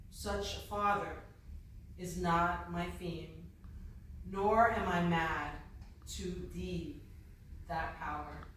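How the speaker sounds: measured reading with long pauses between phrases; poem recitation. Acted. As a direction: recite verse phrase by phrase, letting each settle. Reads Poe's poem aloud.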